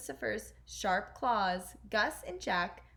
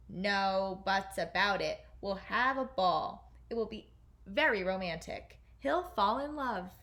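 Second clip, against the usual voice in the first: king; 4 dB louder than usual. Acted. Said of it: "he told the Grand Duke".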